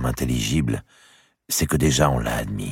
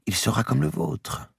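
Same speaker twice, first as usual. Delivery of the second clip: insisting; 13 semitones higher than usual. Acted. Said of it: "insista madame de Bouville".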